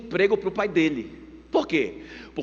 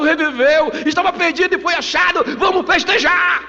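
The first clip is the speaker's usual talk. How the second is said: high, loud, urgent cries of celebration; jubilant shouting; 9 semitones higher, 5 dB louder than usual. Acted. Father orders a feast for his returned son, jubilant shouting. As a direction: shout the orders out, overjoyed, building to the last word. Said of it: "Aí o pai começa a gritar".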